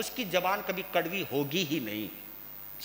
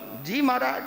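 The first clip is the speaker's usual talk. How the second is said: imitating a fearful devotee's meek yes; obedient, higher-pitched put-on reply; mock submission; 4 semitones higher than usual. Devotee dodging the great guru's curse, mock submission. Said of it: "चुपचाप बोल लो".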